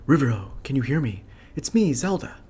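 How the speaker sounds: princess voice. Acted. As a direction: speak as a young princess. Voices Zelda message.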